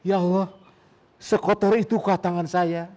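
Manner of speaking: pleading, tearful cry to God; a sufi weeping over his dirty wudu water, crying out to God; tearful lament. A narrator's reading. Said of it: "dia menangis".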